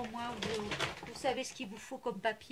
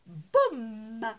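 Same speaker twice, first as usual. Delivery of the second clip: startled exclamation; 9 dB louder than usual. Real, not acted. Something falls off the table.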